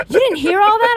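high-pitched incredulous question; imitated disbelieving mom. Buzzed mom questioning daughter in the Uber, incredulous imitation. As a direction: act out mom's amazement.

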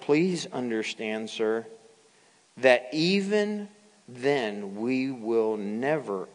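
lightly voiced, composed answer to a king; measured, respectful defiance, held steady; Shadrach, Meshach and Abednego. Three Hebrews answer the threatening king, calmly resolute. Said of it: "here's their response".

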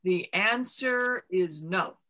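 slow, measured voice of a mountain; a giant stone mountain answering slowly; booming mountain voice. Acted. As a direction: let the mountain pronounce its verdict slowly.

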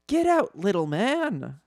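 high-pitched shout, drawn-out ending; shouted order. A narrator's reading. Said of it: "shouted General Leia".

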